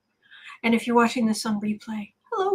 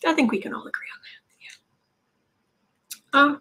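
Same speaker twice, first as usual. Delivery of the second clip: conspiratorial whisper; 3 semitones higher, much faster than usual. Real, not acted. Conspiratorial aside to viewers.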